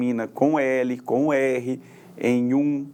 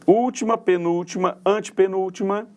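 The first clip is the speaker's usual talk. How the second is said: higher, rising on antepenúltima; raised drill recitation; 3 semitones higher than usual. Shown as a demonstration. Teacher drilling students on syllable names, raised and emphatic. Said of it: "Então, nós temos aqui".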